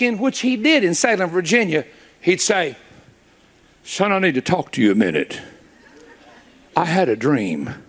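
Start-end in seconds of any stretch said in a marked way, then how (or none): 3.8-7.8 dad's voice. Retold or imitated. Preacher voicing his dad.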